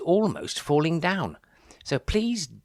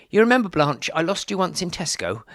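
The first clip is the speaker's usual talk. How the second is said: loud; 6 semitones higher, 7 dB louder than usual. Acted. Talking to his wife.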